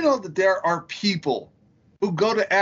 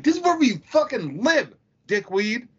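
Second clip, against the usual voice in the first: higher-pitched irritated retort; retold exasperation; 5 semitones higher than usual. Reader answers crewmate's complaint in crew quarters, mock exasperated. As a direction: act out snapping back at a crewmate.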